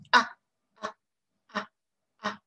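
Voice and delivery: A said with a wide smile, lips stretched, tongue in a triangle; vowel A demo. Shown as a demonstration. Teacher modelling A for French learners, lips stretched wide. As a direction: hold a broad smile and repeat A four times. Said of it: "il faut sourire grand".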